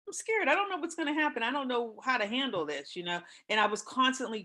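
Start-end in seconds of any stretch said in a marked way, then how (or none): 0.1-3.0 mock frightened voice rising high; retold scared plea. Telling her sick mother, a retold frightened plea. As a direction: voice climbing as if scared again. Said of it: "I would tell her".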